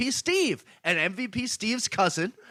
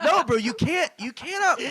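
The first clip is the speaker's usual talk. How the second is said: laughing; 9 semitones higher, 3 dB louder than usual. Real, not acted. Laughing while defending himself.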